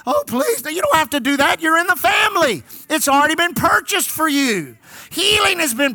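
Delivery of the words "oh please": high, put-on pleading; imitating a needy beggar, pitched way up; mock begging. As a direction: beg in an exaggerated high voice. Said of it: "We beg".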